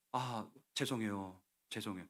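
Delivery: retold cowed apology; meek apology. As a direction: shrink back and apologise, trailing down. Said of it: "나 쫄아가지고요".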